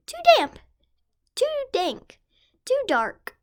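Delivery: high, squeaky little mouse voice. Acted. Tiny mouse grumbling about the cold damp cave, high squeak. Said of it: "Mouse squeaks".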